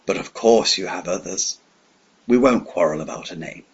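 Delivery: smiling villain. Acted. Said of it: "he said, still smiling".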